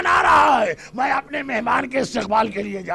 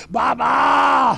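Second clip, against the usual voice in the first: calling out to father. Retold or imitated. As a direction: stretch the first word into a crying call for help. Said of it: "آواز دیتا ہے".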